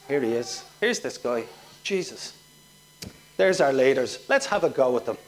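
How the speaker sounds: lightly voiced mob egging itself on; the rowdy crowd. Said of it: "They're like".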